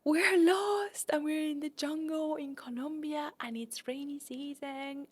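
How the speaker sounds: drawn-out mock sobbing lament; retold crying harder. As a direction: start high and tearful, let it die away slowly to a near whisper. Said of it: "crying even more".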